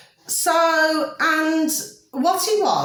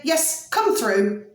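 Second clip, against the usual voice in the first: slow, drawn-out imitation of the son; the son inviting her in, slowly drawn out; how he spoke; 4 semitones higher, much slower than usual. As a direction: spell each word out slowly, imitating him. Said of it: "That's how he spoke".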